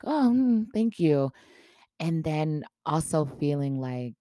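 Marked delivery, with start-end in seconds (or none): 0.0-1.3 small, high-pitched thank-you; high little hum into thanks; soft thanks. Retold or imitated. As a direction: imitate a meek, hesitant acceptance. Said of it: "softly, like".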